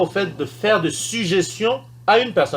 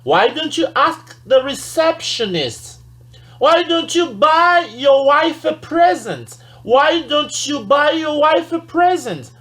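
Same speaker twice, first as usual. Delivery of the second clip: polite suggestion; 9 semitones higher, 3 dB louder, slower than usual. Shown as a demonstration. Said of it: "on dit".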